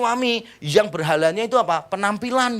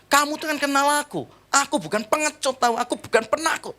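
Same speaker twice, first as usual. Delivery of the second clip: high-pitched indignant self-defence; retold angry retort; 8 semitones higher than usual. Husband defending his courage to his wife, angry. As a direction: re-enact bristling at an accusation. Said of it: "Langsung saya marah".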